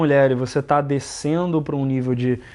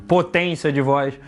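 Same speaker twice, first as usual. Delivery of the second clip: full-power take; slower than usual. Shown as a demonstration. Host showing his cohost a full-power take of the phrase. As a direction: give potência de voz full power, unhurried.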